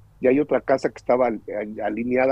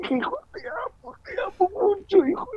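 tearful love. Retold or imitated. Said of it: "lo abrazo".

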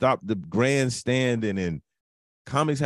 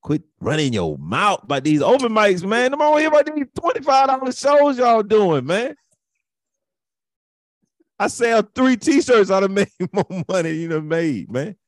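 mocking cocky comic; 11 semitones higher, 5 dB louder than usual. Mocking bragging open-mic comics.

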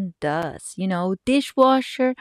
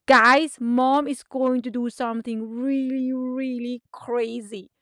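excited yelling; 4 semitones higher than usual. Acted. Mom rallies the girls, excited calling. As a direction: call them over, then draw out the big news. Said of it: "I started yelling".

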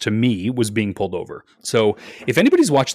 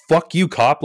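defiant curse; 6 semitones higher, 3 dB louder than usual. Retold or imitated. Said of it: "I could feel myself saying".

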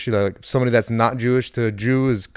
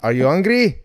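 put-on ESL learner accent; 6 semitones higher, 3 dB louder than usual. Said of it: "they were in E S L class".

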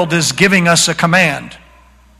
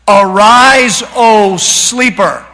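emphatic command; 3 semitones higher, 4 dB louder, much slower than usual. Shown as a demonstration. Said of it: "The imperative that God is giving us".

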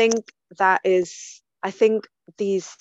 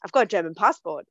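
deliberately annoying; 2 semitones higher than usual. Retold or imitated. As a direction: retell it as a needling comeback. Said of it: "I was being a bit mean".

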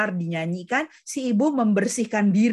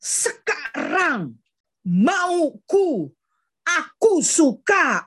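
higher, slow willful whine; emotional child; 6 semitones higher, much slower than usual. Retold or imitated. Lecturer imitating an emotional brain's childish demand, high and slow. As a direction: voice a kid demanding what it wants now. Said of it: "keputusan yang sangat emosional".

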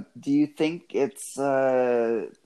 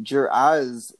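bad French accent; 3 semitones higher than usual. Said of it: "Only with that terrible French accent".

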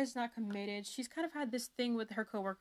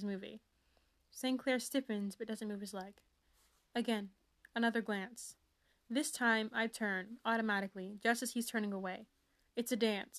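lightly dramatic first-person reading; story reading. Acted. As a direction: read it like a swoony teen novel. Continues reading book sample.

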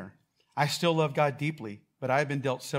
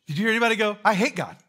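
high, loud incredulous ask; mock outraged question; 7 semitones higher, 9 dB louder, faster than usual. Pastor teasing the congregation, high and loud incredulous. Pastor mocking an unlikely answer.

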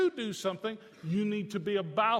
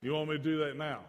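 lightly voiced clueless kid, lower; clueless son; 5 semitones lower, faster than usual. Son answering scolding father, mildly clueless. Plays son's clueless reply.

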